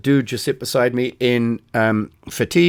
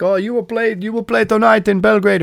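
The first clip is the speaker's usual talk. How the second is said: much higher mock soldier in broken English; cheerful put-on soldier insisting; a hint of a friendly Serbian soldier; quoting a soldier; 9 semitones higher than usual. Soldiers insist band plays Belgrade.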